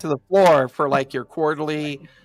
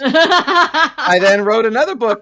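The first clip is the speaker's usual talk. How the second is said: higher, louder, laughing at his own joke; 5 semitones higher, 4 dB louder than usual. Real, not acted. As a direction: crack up as you deliver the punchline. Jokes about Everybody Poops book.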